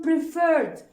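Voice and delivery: "preferred" with its second vowel stressed; stress on second syllable. Shown as a demonstration. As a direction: put the weight on the end of "preferred". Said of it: "We only here stressed on the vowel".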